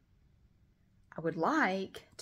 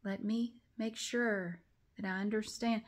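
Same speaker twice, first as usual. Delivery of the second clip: imitating slow talker; 3 semitones higher, 4 dB quieter than usual. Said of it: "was like this".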